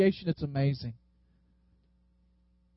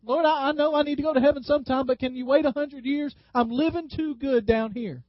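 light quote from a singer; 4 semitones higher than usual. Retold or imitated. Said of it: "That's what the singer's saying".

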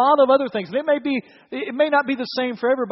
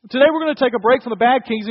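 louder, faster, more energy; energetic restart; 5 dB louder, faster than usual. Shown as a demonstration. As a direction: wake them up and say it again with punch. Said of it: "You, you there?".

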